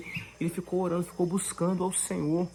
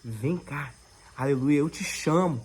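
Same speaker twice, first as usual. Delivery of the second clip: lightly voiced divine call, a little low; the Lord calling; 4 semitones lower than usual. The Lord calls his child to come, gentle low calling. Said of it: "a voz do Senhor te chamando".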